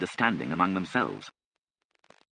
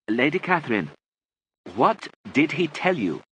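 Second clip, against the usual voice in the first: raised for the deaf; 8 semitones higher than usual. A narrator's reading. Questioning a deaf old lady.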